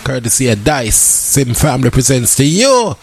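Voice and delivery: slow, drawn-out party promo announcement; promo ad read. Acted. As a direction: announce the event like a radio ad. Reads event promo.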